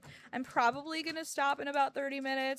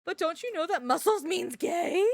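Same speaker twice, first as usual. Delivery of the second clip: sarcastic mock whisper; 6 semitones higher, 6 dB louder than usual.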